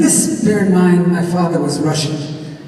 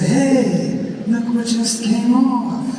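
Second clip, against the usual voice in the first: mildly raised, drawn-out comic call; acted stage line; 5 semitones higher, much slower than usual. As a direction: show off a find, stretching the words. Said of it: "And I said".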